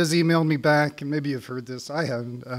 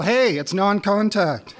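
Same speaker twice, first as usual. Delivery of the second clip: slow, raised indignant protest; a mock shout of outrage, a bit higher; hammed-up yell; 7 semitones higher, 5 dB louder, slower than usual. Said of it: "I yell".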